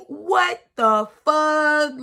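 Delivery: slow, drawn-out disbelief; stunned what the fuck. Retold or imitated. Stunned at the regular's point, slow disbelief. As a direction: let it hang in shocked disbelief.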